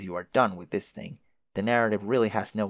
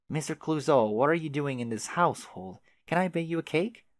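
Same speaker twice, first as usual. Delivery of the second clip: put-on higher, bright eager teen-girl voice; enthusiastic teen girl; 6 semitones higher than usual. Daughter greeting the disguised detective, eager teen-girl voice. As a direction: gush like a star-struck girl. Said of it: "high-pitched voice of an enthusiastic teen girl".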